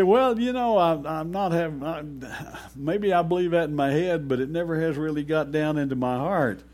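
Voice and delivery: doubting listener. Retold or imitated.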